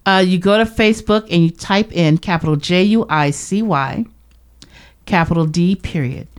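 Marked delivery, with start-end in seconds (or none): 1.9-6.3 spelling it out letter by letter; dictating. Shown as a demonstration. Spelling out page name.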